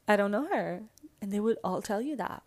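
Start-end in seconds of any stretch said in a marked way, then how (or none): 0.1-0.8 louder, lightly put-on diva dismissal; a pop singer. Old schoolmates disowning her, light diva impression. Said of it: "a singer's voice".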